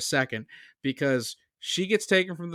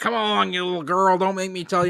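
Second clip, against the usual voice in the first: really creepy acted voice, pitched up; 5 semitones higher, 4 dB louder than usual. Retelling a film scene, voicing a man dragging a girl: put-on really creepy voice. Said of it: "being, like, really creepy".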